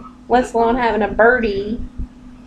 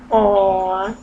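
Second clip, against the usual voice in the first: low, soft cooing; affectionate, lowered voice; tender pet talk; 4 semitones lower, 5 dB quieter, slower than usual. Real, not acted. Cuddling her lovebird.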